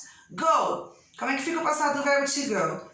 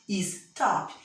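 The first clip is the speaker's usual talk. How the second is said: "Stop" as is-TOP, lower-pitched, in two beats; stress on TOP; 4 semitones lower than usual. Shown as a demonstration. Teacher confirming the strong syllable, stress on TOP. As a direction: separate is from TOP in "Stop", weight on TOP. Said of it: "É lógico que top".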